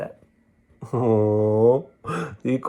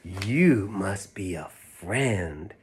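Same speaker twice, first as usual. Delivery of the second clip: tender bear; 4 semitones lower, 4 dB quieter, much slower than usual. Acted. Corduroy speaks tenderly.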